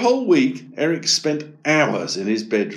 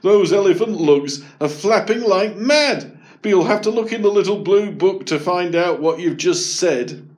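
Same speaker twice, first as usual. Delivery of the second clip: higher, louder amused dad; 8 semitones higher, 5 dB louder than usual. A narrator's reading. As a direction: tease with a touch of laughter. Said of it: "laughed Dad".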